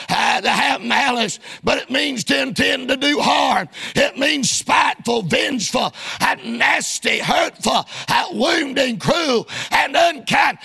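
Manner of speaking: rhythmic pulpit delivery; preaching. Real, not acted. Preacher explaining the word malicious to congregation, preaching. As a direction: punch out each phrase like a preacher.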